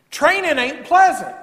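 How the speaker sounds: drawn-out preaching punch; slow, weighty declaration; slow, emphatic. Real, not acted. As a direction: lean on each word slowly.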